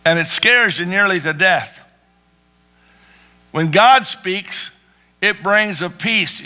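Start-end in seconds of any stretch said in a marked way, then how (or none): 3.5-6.4 "When God speaks" drawn out slowly, every word weighed; slow it right down and let "peace" land; slow emphatic preaching. Shown as a demonstration. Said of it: "why am I talking like this".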